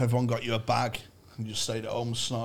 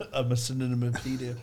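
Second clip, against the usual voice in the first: slurring more with each word; 5 dB quieter than usual. Real, not acted. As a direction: let the words slur more and more. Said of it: "You're sounding drunker and drunker as this sentence goes on".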